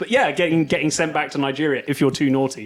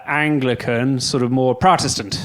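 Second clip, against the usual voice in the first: Irish accent; slower than usual. Real, not acted. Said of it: "I don't know why I said that in an Irish accent".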